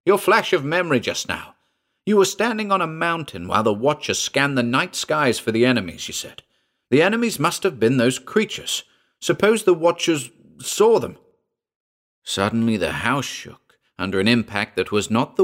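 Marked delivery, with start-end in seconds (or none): 0.0-11.2 high, pressing, urgent; desperate urging. A narrator's reading. Narrator desperately pressing Hayward about the Watchers, high and urgent. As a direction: push the idea on him fast. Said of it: "I persisted desperately".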